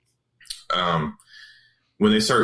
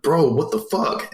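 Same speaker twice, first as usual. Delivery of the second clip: higher-pitched, slowed mock yell; retold outburst, pitched up and drawn out; mock angry yell; 6 semitones higher than usual. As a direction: snap it at him, half-acted. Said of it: "I yell at him".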